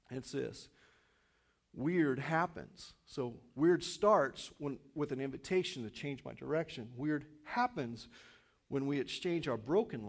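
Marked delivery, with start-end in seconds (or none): 1.7-2.9 slow slogan. Shown as a demonstration. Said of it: "repeated slogan". 7.0-8.1 slow slogan. Shown as a demonstration. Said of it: "repeated slogan".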